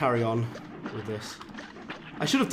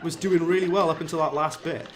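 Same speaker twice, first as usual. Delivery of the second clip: higher, louder, laughing disbelief at himself; exasperated outburst; 6 semitones higher, 4 dB louder than usual. Real, not acted. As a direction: rant at your own bad play, half laughing. Frustrated gamer losing boss fight.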